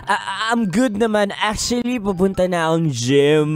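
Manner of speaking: deep pitch shifted. Acted. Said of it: "Bakit parang iba yung salita mo".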